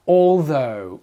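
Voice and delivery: ALTHOUGH in two clear parts, all then though; careful pronunciation. Shown as a demonstration. Teacher starting on pronunciation, careful ALTHOUGH. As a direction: model "Although" carefully, voiced th in the middle. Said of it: "on va commencer par la prononciation".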